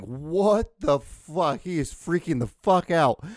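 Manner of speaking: slow, drawn-out mock disbelief; voiced dog reaction. Podcaster voices his dog watching him rant, slow disbelief. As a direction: stretch it out as the baffled dog. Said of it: "she's like".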